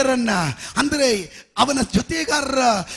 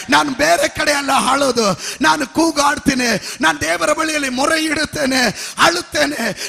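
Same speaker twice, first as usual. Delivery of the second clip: fervent vow. Acted. Voicing a believer's vow.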